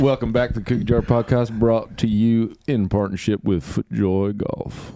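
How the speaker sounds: podcast intro in an attempted southern accent, drawn out at the end. Shown as a demonstration. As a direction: put on a southern accent to welcome listeners. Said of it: "You can go back to your normal voice".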